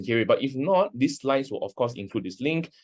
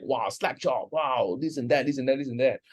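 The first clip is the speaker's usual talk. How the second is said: a lightly voiced gushing salesman; breezy imitation of overexcited infomercial wowing; mock hype voice; 3 semitones higher than usual. Mocking the hype viewers no longer want, lightly gushing. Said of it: "don't want to be wowed by, like".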